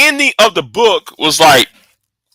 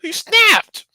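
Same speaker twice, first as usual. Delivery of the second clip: He snapped squealed very high; high squeal of awe; 3 dB quieter than usual. Real, not acted. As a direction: squeak the words out in amazement. Awed by Batman's violence.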